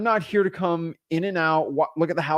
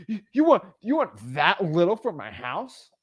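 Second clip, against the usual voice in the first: mock incredulity; 3 semitones higher than usual. Mimics seller offended by low offer.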